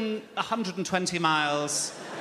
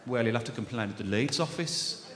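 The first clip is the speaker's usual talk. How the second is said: put-on Brummie accent; 7 semitones lower than usual. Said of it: "she had a thick Brummie accent".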